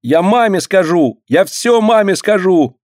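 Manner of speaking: high, tearful threat; crying threat. A narrator's reading. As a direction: wail it through tears. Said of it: "прерывается громким плачем".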